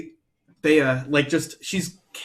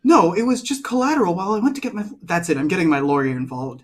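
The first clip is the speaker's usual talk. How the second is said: indignant threat; 5 semitones higher, 4 dB louder than usual. Acted. Bea keeps arguing.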